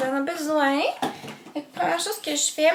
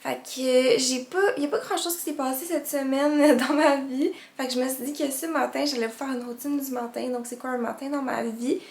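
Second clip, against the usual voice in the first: groggy morning vocal fry; just-woke-up creaky voice. Real, not acted. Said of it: "Vous excuserez ma voix du matin".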